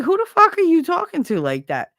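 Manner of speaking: high, loud mock yell; retold angry yell. Mother retelling how she yelled at her son, mock angry yell. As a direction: fire it back at him, indignant. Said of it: "I'm like".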